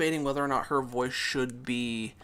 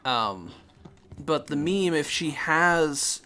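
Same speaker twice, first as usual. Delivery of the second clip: ordinary talk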